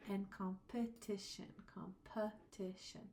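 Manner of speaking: competition said slowly, the I and uh clear; slow competition so every vowel is heard; deliberate slow pronunciation. Shown as a demonstration. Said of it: "I said it like that on purpose".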